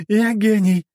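high, slow giggle then boast; giggly drunk. Acted. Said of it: "Пьяная богиня захихикала".

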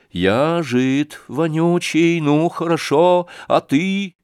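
mocking calm. Sashka coolly turns the insult back.

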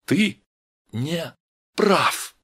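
"Ты... не... прав!" with a pause after each word; separate, distinct words. A narrator's reading. Vera stands up to Steve, saying "Ты", "не", "прав" separately and clearly. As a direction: set "Ты", "не" and "прав" apart, each crisply articulated. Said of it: "произнесла эти слова раздельно и чётко".

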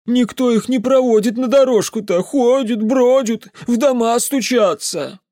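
put-on high, loud superstitious drunken rant; the drunk uncle warning the mage about creatures; ranting drunk peasant. A narrator's reading. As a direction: grumble darkly about the volcanoes.

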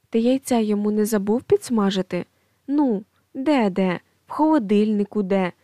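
nagging scold. Acted. Mother scolding husband by phone.

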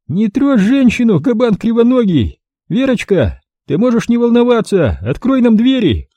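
high, sugary squeaking voice; honeyed squeak. A narrator's reading. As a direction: drip with false sweetness. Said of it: "Истекая мёдом, пропищал Кострат".

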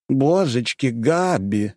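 high, affected mannered man. A narrator's reading. Mannered Indian fussing at Gabi. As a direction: camp it up, high and fussy.

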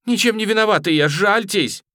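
high, loud, fast plea; frightened begging. A narrator's reading. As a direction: beg for pity in panic. Boy begs for mercy. (испуганно и быстро умоляет)

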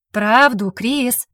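angry growled demand. Acted. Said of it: "прорычала".

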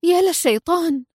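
a stunned exclamation pitched high. A narrator's reading. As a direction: blurt it out in shock. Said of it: "وهي تغمغم في ذهول".

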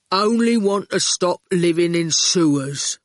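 heavy, blunt sincerity; earnest. A narrator's reading. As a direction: plead simply and seriously. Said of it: "Erskine said earnestly".

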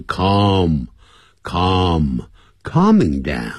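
calm, calm said very slowly with an open ah; calm pronounced kahm, not like come. Shown as a demonstration. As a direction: draw out calm, calm, calming down. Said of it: "不是come，come是C O M E".

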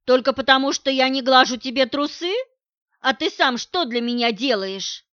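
wife hits back at husband, loud and outraged; angry retort. Acted. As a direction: throw it back at him. She shouts back in quarrel.

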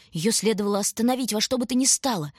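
ordinary delivery, nothing marked

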